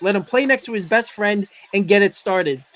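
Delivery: hoarse voice from the flu; sick, froggy throat. Real, not acted. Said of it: "I'm sorry if I sound like I have, like, a frog's throat".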